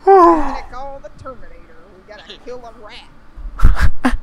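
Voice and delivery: Arnold impression. Calling the Terminator to kill a rat, loud Arnold voice. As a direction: boom it out like Arnold. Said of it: "Oh my God, Arnold".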